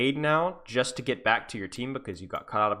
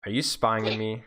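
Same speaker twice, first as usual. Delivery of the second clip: mock paranoid; 5 semitones higher than usual.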